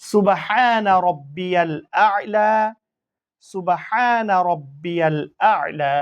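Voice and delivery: slow, drawn-out Arabic recitation; prayer recitation. Shown as a demonstration. Teacher recites the prayer for students, slow and drawn out. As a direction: chant each word slowly and clearly for learners. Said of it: "সিজদা ও তাসবিহ".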